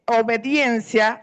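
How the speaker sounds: obediencia said slowly and carefully as o-be-dien-cia; careful correction of obediencia; corrected word. Shown as a demonstration.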